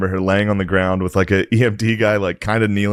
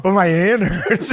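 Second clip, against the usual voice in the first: meek high mom voice; 8 semitones higher, slower than usual. Retold or imitated. Mom dazed with shattered hand.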